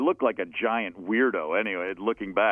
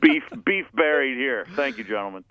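mock formal. Mock formal peace-making.

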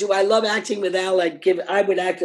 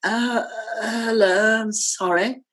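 slow, slurred tipsy greeting; drunk Vivien Leigh; 2 semitones higher, slower than usual. Retold or imitated. Vivien Leigh drunkenly apologizing to Brenda, slow and slurred. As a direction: mumble it like you've had too much. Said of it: "she was so drunk".

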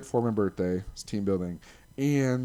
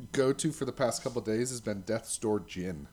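tipsy; 3 dB quieter than usual. Real, not acted. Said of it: "Ooh, I'm getting a little drunk".

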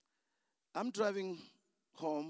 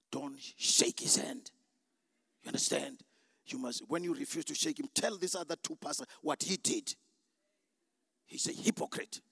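devil voice; 5 semitones lower than usual. Retold or imitated. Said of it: "And the devil said".

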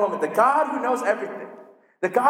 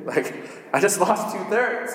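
laughing disbelief. Retold or imitated. Gideon objects to God.

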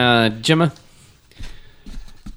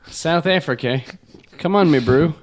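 put-on South African accent; 2 semitones higher than usual. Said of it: "work on my South African accent".

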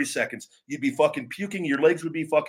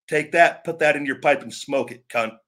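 angry taunt; 3 dB louder than usual. Real, not acted. Angry rant at online critics.

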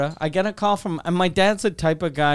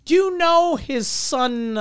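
imitating dad's old friend; 6 semitones higher, slower than usual. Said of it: "And he goes".

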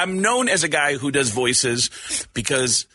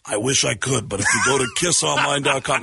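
a rock musician; 3 semitones lower than usual. Retold or imitated. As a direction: drop low and pitch it like a promo. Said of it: "he goes".

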